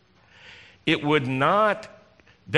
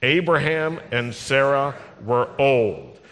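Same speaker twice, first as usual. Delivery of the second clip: slow, deliberate phrasing. Shown as a demonstration. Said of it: "Say that with me".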